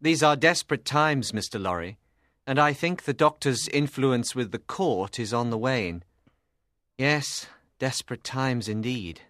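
low, measured and grave; deep-voiced, serious reflection; thoughtful. A narrator's reading. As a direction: muse on it in a deep man's voice. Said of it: "he said thoughtfully".

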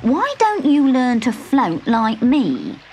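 slow, teasing creature voice; frog character. Acted. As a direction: drawl it out like a storybook frog. Same frog teasing the witch.

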